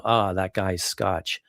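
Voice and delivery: slow, mock American drawl; American accent. Mimicking Americans who call a Scot Scotch, light American accent. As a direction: lightly imitate an American with an open vowel in "Scotch". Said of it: "when Americans say Scotch".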